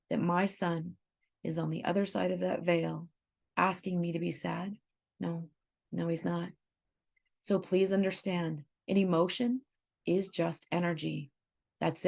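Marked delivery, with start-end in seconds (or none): 0.1-6.5 quiet, tender conviction; soft and solemn. Real, not acted. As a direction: speak softly of a lost son. Speaking of her dead son.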